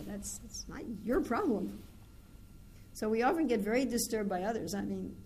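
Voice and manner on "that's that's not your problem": slow firm. Retold or imitated. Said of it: "I said".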